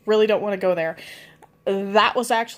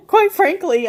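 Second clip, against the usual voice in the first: laughing; 9 semitones higher, 3 dB louder than usual. Real, not acted. Laughing at the memory.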